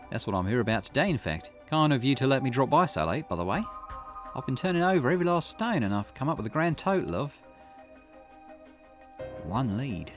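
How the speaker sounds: lightly voiced investigator giving an update; Richter. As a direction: report to a client, pause before the reveal. Voices Richter reporting to client.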